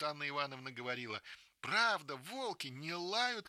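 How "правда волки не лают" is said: put-on girl realising it is a dog; excited shout. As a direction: shout with relief. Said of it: "кричит Маруся".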